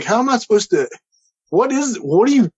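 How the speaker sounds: high, tripping over half questions; flustered sputtering. Retold or imitated. Flustered, lost for words.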